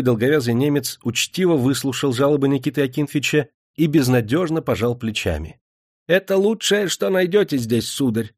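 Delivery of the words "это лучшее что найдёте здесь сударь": dry. A narrator's reading. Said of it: "сухо ответил немец".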